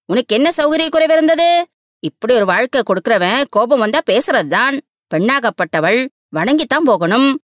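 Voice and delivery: put-on high, indignant older woman lecturing; scolding mother-in-law. Mother-in-law rebuking Girija for leaving her husband, high and scolding.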